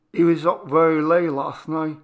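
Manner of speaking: smooth over his rudeness; excusing mother. Acted.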